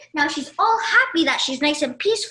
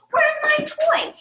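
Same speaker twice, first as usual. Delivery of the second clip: put-on high, drawn-out childish yell; mock yell; 12 semitones higher, 5 dB louder, slower than usual. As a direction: act out a kid yelling for a lost toy, slowly. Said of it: "you start yelling".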